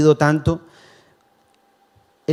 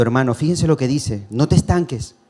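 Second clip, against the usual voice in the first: normal talking voice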